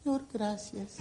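high, slow cry of thanks to the Lord; loud grateful cry. Retold or imitated. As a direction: stretch out a loud thank you to God. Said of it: "uno dice". (grito agudo y lento de gratitud)

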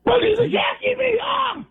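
hoarse sobbing shout; crying yell. Real, not acted. Caller crying out to the host to be left alone. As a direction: yell it through tears.

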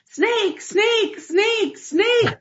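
high-pitched panicked yells of snake; retold scream. Wife yelling up from the basement, high panicked shriek. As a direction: shriek it up the stairs in alarm. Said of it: "she's screaming at the top of her lungs".

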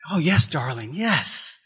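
tender reassurance. Retold or imitated. Sister reassuring the girl.

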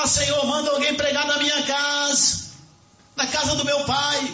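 high-pitched imitation of begging; preacher re-enacting a desperate appeal; acted pleading. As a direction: plead with God as the rich man. Rich man begs God, acted.

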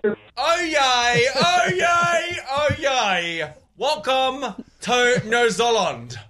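drawn-out excited crier call; excited town crier. Pretend. Host told to sound excited welcoming people, mildly excited cry. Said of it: "Sound excited, excited".

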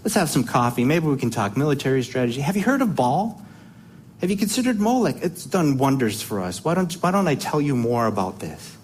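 lightly voiced sweet-talking tempter, casual and friendly; chatty, coaxing sales pitch with lifts in pitch on the questions; lightly acted smooth talker luring someone in; Agag. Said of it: "I would imagine Agag's like".

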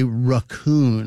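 raccoon said "ruh-KOON"; drawn-out ruh-KOON for raccoon; soft raccoon. Retold or imitated. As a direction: quote raccoon with a weak "ruh" first syllable. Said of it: "heard the soft raccoon before".

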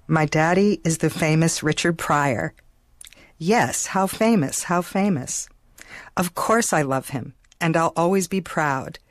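put-on slow, careful reading of a child's poem; unhurried recital of a childhood poem. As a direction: read the little poem slowly, line by line. Reads her childhood poem aloud.

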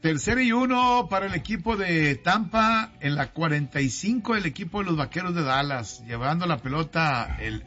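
play-by-play. Pretend. Mock football play-by-play.

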